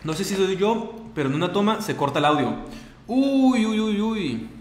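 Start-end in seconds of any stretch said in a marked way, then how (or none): 3.1-4.5 high, drawn-out "uy" sliding down; a long rising alarm that tails off; dismayed uh-oh. Real, not acted. Streamer noticing the audio cuts out, high dismayed wail.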